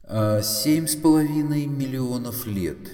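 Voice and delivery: loud, high, long-drawn answer; resounding computer pronouncement. A narrator's reading. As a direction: intone the figure grandly.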